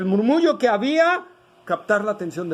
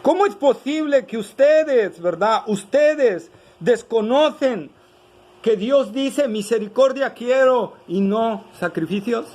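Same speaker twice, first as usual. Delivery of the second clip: rhetorical rebuke; 4 semitones higher, 3 dB louder than usual. Acted. Preacher rebuking with Jesus' words.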